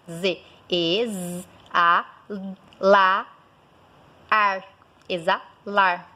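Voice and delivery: "exalar" stretched sound by sound; slow "exalar" with long Z and vowels; slow sound breakdown. Shown as a demonstration. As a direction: draw out each piece of "exalar". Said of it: "a consoante Z".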